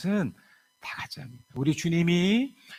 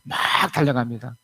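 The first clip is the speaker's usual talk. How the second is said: usual speaking voice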